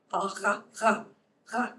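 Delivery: A ha, ha, ha scraped with the uvula; throaty r. Shown as a demonstration. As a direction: rasp A ha, ha, ha in the throat. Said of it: "That's a uvular fricative".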